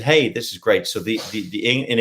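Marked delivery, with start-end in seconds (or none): 0.0-0.9 imitation American accent; put-on American talk. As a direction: quote an American in their accent. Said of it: "Americans, they say".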